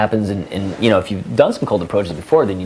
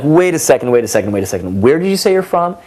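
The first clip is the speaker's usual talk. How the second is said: much higher, louder mock shock; dramatic disbelief; 6 semitones higher, 4 dB louder than usual. Shown as a demonstration. Man stops a girl over Peoria, mock shock. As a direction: act stunned at her hometown. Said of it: "And you're like".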